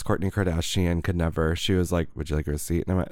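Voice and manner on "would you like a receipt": low, uninflected clerk imitation; dropped low, no inflection; expressionless clerk. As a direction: mimic a clerk with no smile and no inflection. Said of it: "no inflection in her voice".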